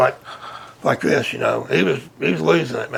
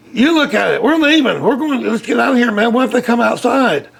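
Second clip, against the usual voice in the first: imitating a panicked friend; 6 semitones higher than usual. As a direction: retell a terrified buddy begging to leave. Scared friend begging to leave.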